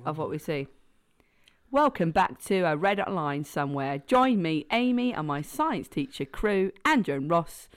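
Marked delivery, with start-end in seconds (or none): 1.7-7.7 lightly put-on London accent; London presenter read. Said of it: "try a London accent now".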